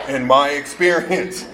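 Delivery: slow, deliberate phrasing; drawn-out and patient. Shown as a demonstration. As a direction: spell it out slowly. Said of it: "then I gotta say it slower".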